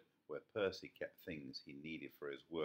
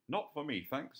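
fox voice; 9 semitones higher, 6 dB louder than usual. A narrator's reading. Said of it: "said the fox".

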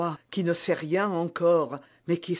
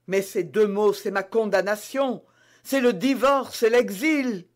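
higher, rising dread; fearful queen; 5 semitones higher, 4 dB louder than usual. Acted. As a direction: list her ruin with mounting fear. Reine redoute sa perte. (reine angoissée, de plus en plus aiguë)

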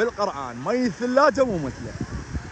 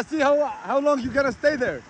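taunting call; 5 semitones higher, much slower than usual. Real, not acted.

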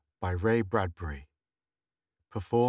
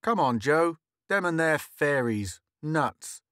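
put-on scornful boy; 5 semitones higher, 3 dB louder than usual. Boy mocking younger kids.

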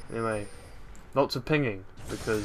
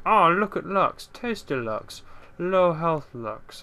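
mock gloating; 7 semitones higher, 4 dB louder, slower than usual. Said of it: "He's like".

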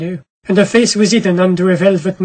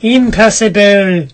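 lightly voiced ticket woman; slower than usual. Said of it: "said the woman".

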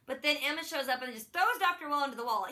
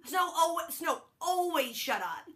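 louder, higher mock snapping; Regina yelling at Snow to shut up, mock angry; mock exasperated; 4 semitones higher, 3 dB louder than usual. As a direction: tell Snow off, hammed-up.

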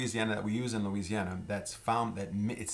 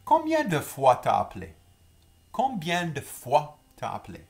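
modeled question; 6 semitones higher, 7 dB louder than usual. Shown as a demonstration. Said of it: "for example".

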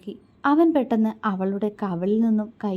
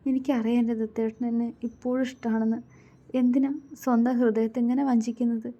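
hurt, pleading with welling tears; tearful; 2 semitones higher than usual. A narrator's reading. Woman begging her man to stop pretending, tearful. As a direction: plead gently, close to tears. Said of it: "അവൾ കണ്ണു നിറച്ചുകൊണ്ട് ചോദിച്ചു".

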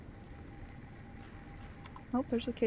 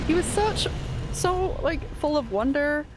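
mock mourning; 3 semitones higher than usual.

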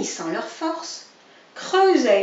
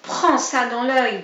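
fighting shout; 3 semitones higher, 6 dB louder than usual. Acted. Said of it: "disait l'un".

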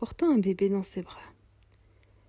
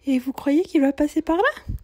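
put-on higher, plaintive young mother's voice; young mother, weary; 7 semitones higher, 8 dB louder than usual. Poor young mother telling the cobbler she's going to hospital, higher and plaintive. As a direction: sound tired and worried about her baby.

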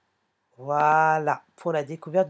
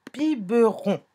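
syllable by syllable; 3 semitones higher than usual. Shown as a demonstration. Word shown syllable by syllable.

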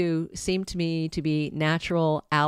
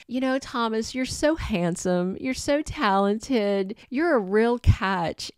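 sweet flattering coax, rising pitch; 4 semitones higher than usual. Retold or imitated. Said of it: "Brooke tried flattery".

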